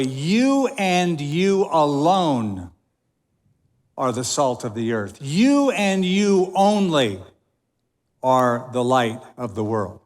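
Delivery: "You and you" stretched out slowly, "alone" and "only" drawn long; emphatic YOU. Shown as a demonstration. Preacher rereading the verse in the emphatic plural, stressing YOU. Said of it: "It would better read this way".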